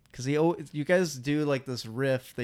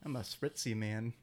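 put-on soda ad voice; 3 semitones lower, 11 dB quieter than usual. Ad parody voice.

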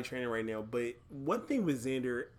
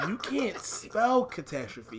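laughing; 6 semitones higher, slower than usual. Real, not acted. Laughing at toddler.

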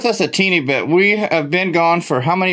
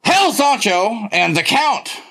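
ring announcer; 3 semitones higher than usual. Pretend. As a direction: present the fight card like an announcer. Hyping a wrestling card like announcer.

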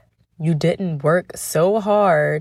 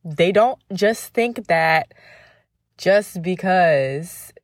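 usual speaking voice

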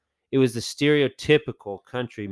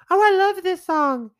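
much higher, louder mock gush; high-pitched imitation; 8 dB louder than usual. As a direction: squeal it like a delighted fan. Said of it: "in a kinda high-pitched voice".

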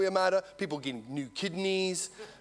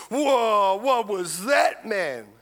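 louder, higher startled whoa, the polite version; a cleaned-up, milder version of his shock; toned-down retelling; 4 semitones higher, 7 dB louder, much slower than usual. Retold or imitated. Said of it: "Well, he didn't say it like that".

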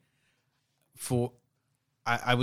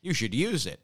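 lilting, slightly higher ad pitch; ad read; 5 semitones higher than usual. Shown as a demonstration. Host demonstrating his own Anchor ad, ad-read voice. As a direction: sell it like a podcast host's ad. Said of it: "it's just me saying".

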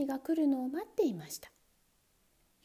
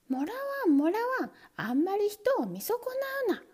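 high, louder indignant shout; trap shouting; 10 semitones higher, 3 dB louder than usual. Acted. Trap yelling at the man who cannot hear. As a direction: yell back in protest. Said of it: "ネズミ捕りは怒鳴りました".

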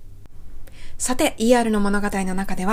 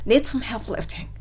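slow model line; slower than usual. Shown as a demonstration. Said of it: "救急隊員の女性がまず一言".

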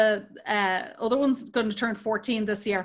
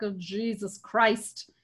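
1 exasperated groan; 3 semitones lower, 6 dB quieter, slower than usual. Retold or imitated. Mother groaning at son's accent.

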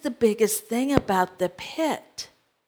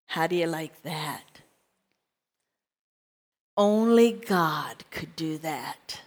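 whisper; 7 semitones lower, 7 dB quieter than usual. Real, not acted. Awed aside to congregation.

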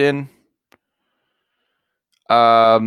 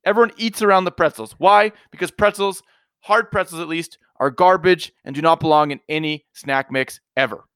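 higher, worked-up rant about snack mix; aggressive rant; 3 semitones higher than usual. Real, not acted. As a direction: get riled up and indignant. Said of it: "You were really aggressive there".

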